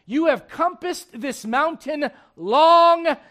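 a measured divine command; voice of the Lord. Acted. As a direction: deliver it as God's stern verdict. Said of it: "You know what the Lord said?".

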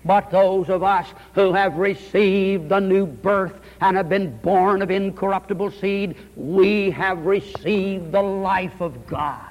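slow, measured pulpit cadence; unhurried preacher over organ music; solemn sermon. Acted. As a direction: lay each phrase down slowly and gravely.

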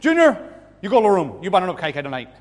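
loud, high barked father's order; mock furious dad scolding his son; hammed-up dad yelling at Junior; angry dad.

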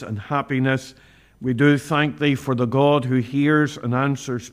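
fervent prayer, rising with feeling; earnest pleading prayer. Acted. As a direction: pray earnestly for the family. Leads a closing prayer.

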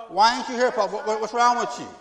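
high, loud pleading call; child calling out. Retold or imitated. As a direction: cry out for Papa.

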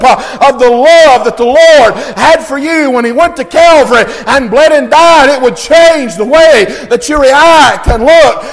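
loud, driving pulpit delivery; impassioned sermon cadence; full-force preaching. Real, not acted. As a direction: preach it with rising fervour.

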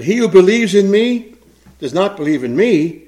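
loud, ringing preacher's cry to the crowd; Jesus crying out. Acted. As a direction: proclaim it full force to the crowd. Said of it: "Jesus cried out and said".

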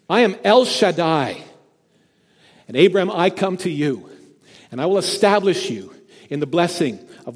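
full-force preaching as God speaks to Abraham; booming proclamation. Acted. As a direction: announce "I am El Shaddai" with full force. Preacher voicing God's declaration.

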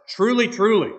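"Truly, truly" loud and high, declared with authority; emphatic "Truly, truly". Retold or imitated. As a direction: hammer both words of "Truly, truly". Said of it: "he's putting an emphasis on that word".

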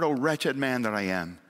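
"Oh, wretched man that I am" as a sincere plea; mean every word of it, from the heart; the right way, a true cry for help; heartfelt cry. Shown as a demonstration. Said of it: "when the cry comes from the heart".

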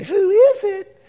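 high, loud, drawn-out call; acted shout at a knock; yelling to the door. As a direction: holler it across a noisy house. Household yells at knock on door.

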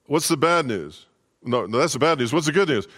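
high, frantic wife pleading; anxious young wife voice; panicked wife. Acted. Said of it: "She goes".

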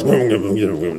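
low muttered mock complaint; soft, low, indistinct grumble; imitated grumbling. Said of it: "that's how we grumble, complain".

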